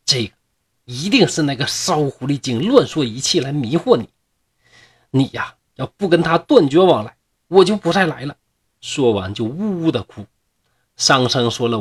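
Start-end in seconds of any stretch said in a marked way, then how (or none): 0.0-8.4 a touch of sharp scolding, rising at the end. Acted. Jealous ghost girl scolding her lover, mildly heated. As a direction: scold him, then threaten to leave. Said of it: "就骂道".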